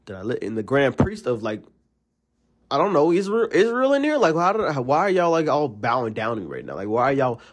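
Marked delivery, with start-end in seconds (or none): 2.7-5.7 incredulous high. Real, not acted. Incredulous exaggeration, high loud.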